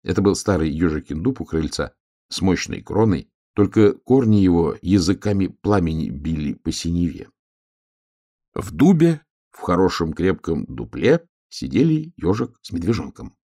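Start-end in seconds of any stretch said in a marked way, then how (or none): none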